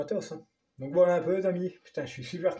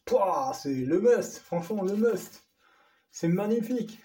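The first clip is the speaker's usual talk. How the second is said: delighted; 3 semitones higher than usual. Real, not acted. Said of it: "tellement content".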